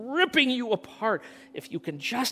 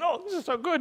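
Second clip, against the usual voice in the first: inner voice; 12 semitones higher, faster than usual. Retold or imitated. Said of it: "And I'm thinking".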